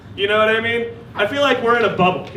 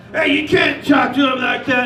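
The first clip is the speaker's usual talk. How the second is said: raised, scolding shout; bums scolding; 6 semitones higher than usual. Retold or imitated. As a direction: tell him off for his rudeness. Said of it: "they were like".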